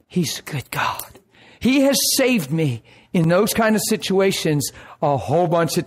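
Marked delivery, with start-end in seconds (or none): 0.1-1.2 softer, slow, breathy affirmation; quiet heartfelt whisper; hushed. Real, not acted. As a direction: say it almost under the breath.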